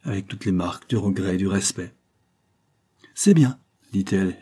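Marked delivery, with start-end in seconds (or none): 3.1-3.6 put-on stern old woman. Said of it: "air d'austérité et d'autorité".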